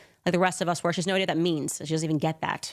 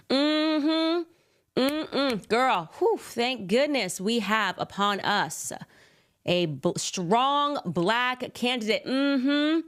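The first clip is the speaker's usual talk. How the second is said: put-on high, drawn-out African American accent; sassy African American accent, slow; 6 semitones higher, much slower than usual. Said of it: "if I speak in Ebonics".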